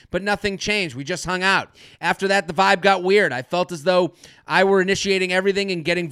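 brisk, even read-aloud, slightly low and soft; email read aloud. Acted. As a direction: read a listener's confession straight through. Reads a listener's email aloud.

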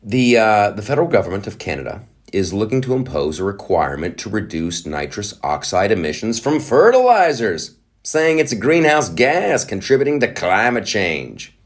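reading news in a light Irish lilt; a hint of an Irish brogue; Irish accent. Reading the article to viewers, light Irish accent. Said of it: "I don't know why I'm talking like this... I'm doing Ireland".

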